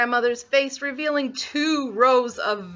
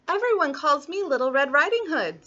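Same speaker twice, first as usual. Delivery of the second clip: put-on high, innocent child voice; little girl; 6 semitones higher than usual. Little Red telling the wolf her name, high girlish voice. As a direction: answer as a trusting little girl.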